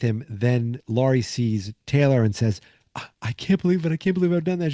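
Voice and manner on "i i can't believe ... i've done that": higher-pitched imitation of a remorseful woman; mock distress. Laurie to Taylor after shooting Artie, mock distress. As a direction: fret in a raised voice, lightly acted.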